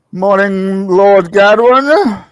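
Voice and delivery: grand, drawn-out noble greeting; mock formal greeting. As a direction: greet him like a herald.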